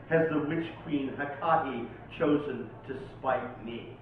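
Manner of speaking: dramatic, measured poem recital; poetry reading. Acted. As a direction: declaim it like a dark incantation. Recites Lovecraft poem aloud.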